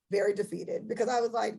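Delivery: usual speaking voice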